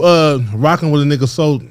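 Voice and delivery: talking around ice; ice in mouth. Real, not acted. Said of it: "I got ice in my mouth".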